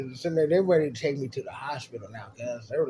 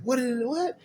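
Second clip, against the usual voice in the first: mock confusion; 11 semitones higher than usual. Playing dazed after the fake hit.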